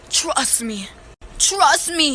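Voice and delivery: drawn-out, sceptical echo; mocking repetition. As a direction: parrot the promise back, stretching TRUST. Mockingly repeats cousin's assurance.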